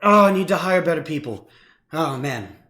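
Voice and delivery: exasperated foreman yelling at his crew; shouting. Acted. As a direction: shout orders, stumbling into loud exasperation. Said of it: "you hear a voice just shouting".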